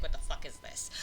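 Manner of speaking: laughed through, breathy mock outrage; half-laugh "What the fuck is this?" in disbelief. Imagining Fagin's posh accent, laughing in disbelief. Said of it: "I'd be like".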